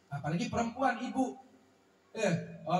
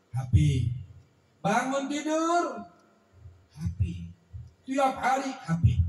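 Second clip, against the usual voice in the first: exasperated complaint. Acted. Child complains about mother's phone habit.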